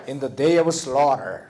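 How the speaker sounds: slow, carefully spaced reading along with the class; slow choral reading. Shown as a demonstration. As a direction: read each word slowly so students can follow. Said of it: "자, 읽어봅시다". (천천히 또박또박 함께 읽기)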